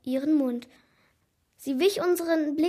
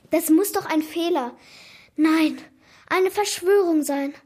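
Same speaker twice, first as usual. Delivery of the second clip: louder, insistent suspicion; indignant disbelief; 3 semitones higher, 7 dB louder than usual. A narrator's reading. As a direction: build a mildly dramatic protest. Pupil insists grade is a conspiracy.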